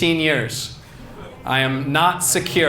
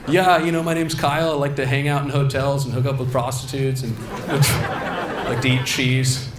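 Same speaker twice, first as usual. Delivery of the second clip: skinny voice actor. Retold or imitated. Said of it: "a skinny white dude who looks like me".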